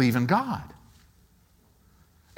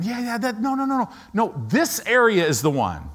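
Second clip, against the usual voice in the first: high-pitched hurried brush-off; mildly impatient interruption; 6 semitones higher than usual. Acted. Believer redirecting the Lord to the urgent area, mildly impatient. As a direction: cut in, pitch jumping up, then settle.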